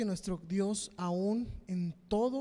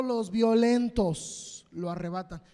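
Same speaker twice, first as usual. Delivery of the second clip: slow and louder, each word pressed; preaching emphasis; 6 dB louder, slower than usual. Real, not acted. Preacher to the faithful, slow and louder. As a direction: press the words out slowly. Preaching on the violent taking heaven.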